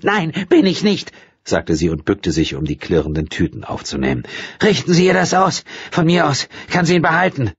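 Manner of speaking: high, bitter woman's voice; hostile retort. A narrator's reading. Bitter woman dismissing the missing writer. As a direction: throw it back at him.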